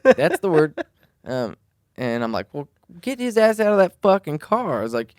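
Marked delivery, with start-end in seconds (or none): 0.0-0.8 much higher and louder, laughing through the quote; laughing while quoting. Retold or imitated. Retelling the buddy confirming drunk, laughing high quote. 2.5-4.8 much higher, louder commanding shout; retold angry order. Telling the buddy to pull the drunk driver out, angry shout.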